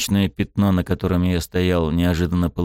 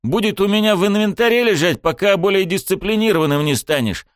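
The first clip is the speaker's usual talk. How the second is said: scolding a disobedient sword, furious; barking angrily; 12 semitones higher than usual. A narrator's reading. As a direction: snap at the sword through tears. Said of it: "рявкнул я сквозь слёзы".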